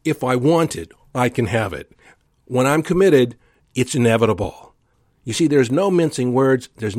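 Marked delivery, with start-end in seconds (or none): 0.0-4.7 certain tone. Shown as a demonstration. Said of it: "I'll say it again".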